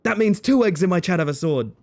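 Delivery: high, punched-up delighted delivery; delighted repeat. Real, not acted. Streamer repeats the joke for chat, delighted. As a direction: pitch it up, relishing the joke.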